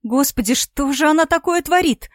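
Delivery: tearful disbelief climbing toward a cry; bursting into tears. A narrator's reading. Yulia watching her sister on video, breaking into tears. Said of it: "расплакалась Юля".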